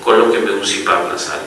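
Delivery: the newborn begging the doctor and nurse for CPAP, softly pleading; baby's plea. Retold or imitated. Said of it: "me está diciendo a gritos".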